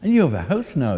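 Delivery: high, bright bird voice boasting; old crow voice. A narrator's reading. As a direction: lift it up like a proud crow.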